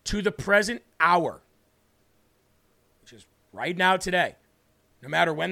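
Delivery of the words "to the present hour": slow, deliberate scripture reading. Shown as a demonstration. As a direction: read it out slowly and carefully. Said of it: "I'll read it slow".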